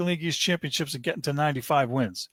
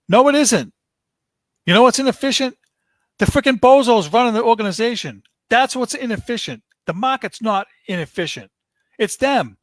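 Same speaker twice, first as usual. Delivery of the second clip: loud, much higher angry yelling; furious shout; 6 semitones higher, 6 dB louder than usual. Real, not acted. Red Sox fan shouting at the organization's bozos in real fury. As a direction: blow up at the front office, full volume. Furious rant at team owners.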